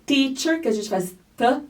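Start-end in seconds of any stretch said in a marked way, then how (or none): 0.0-0.6 teacher with a crisp, clean T at the start; clean English T. Shown as a demonstration. Fonoaudióloga mostrando o T limpo em teacher. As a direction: say teacher with a clean tongue-tip T. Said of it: "como Tereza".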